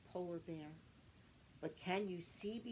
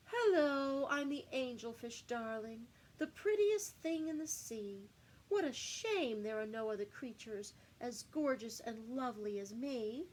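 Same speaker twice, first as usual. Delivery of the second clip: vain angelfish; 4 semitones higher, 4 dB louder than usual. Acted. Angelfish voiced as vain character.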